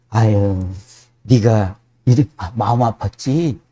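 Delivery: comforting. Retold or imitated. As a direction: soothe a hurting friend gently. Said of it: "이게 위로잖아요".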